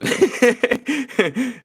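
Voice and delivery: high, loud burst of laughter; big laugh. Real, not acted. Painter promising to cut it, laughing loudly.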